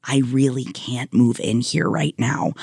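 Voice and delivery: a calm, sincere no to a friend; sincere, gentle. Shown as a demonstration. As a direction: say it gently, looking her in the eye. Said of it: "genuinely looking her in the eyes".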